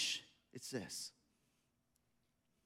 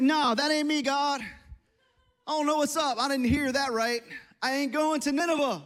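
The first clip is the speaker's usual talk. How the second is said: mock-defiant, a little louder; defiant refusal; 2 semitones higher, 4 dB louder than usual. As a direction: refuse it point-blank, playing a stubborn prophet. Jonah refusing God's order, acted out.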